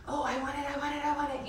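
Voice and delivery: high mock child whining; teacher acting out grabbing impulse, whiny; whiny want. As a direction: beg like a grabby kid. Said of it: "I come out of my body".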